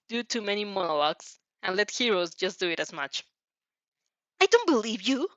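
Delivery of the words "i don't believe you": shout. A narrator's reading. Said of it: "a woman shouts".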